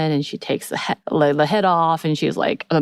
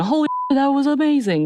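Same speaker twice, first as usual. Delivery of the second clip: much higher, thrilled exclamation; retold excitement; 10 semitones higher than usual. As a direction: burst out with imitated delight. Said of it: "really excited for that moment".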